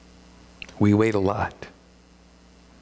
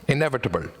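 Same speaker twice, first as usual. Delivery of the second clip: Austrian accent; much faster than usual. Shown as a demonstration. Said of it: "fun to say in accent".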